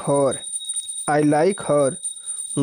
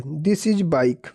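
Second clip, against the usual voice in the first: slow dictation; much slower than usual. Shown as a demonstration. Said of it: "teacher reading the sentence slowly".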